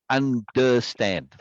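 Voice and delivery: "understand" stretched out syllable by syllable; drawn-out syllables. Shown as a demonstration. Showing students syllable emphasis, "understand" drawn out. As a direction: say "understand" very slowly, stressing by syllable. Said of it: "just emphasize the second syllable".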